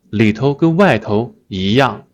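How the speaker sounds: 一样 given the weight of the sentence; stress on 一样. Shown as a demonstration. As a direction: land on 一样. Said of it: "You may notice I stress 一样".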